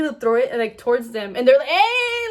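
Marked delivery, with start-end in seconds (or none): 1.7-2.2 high, loud "hey" yelled out; retold angry yell. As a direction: yell as if warding someone off. Acted yell at approaching people.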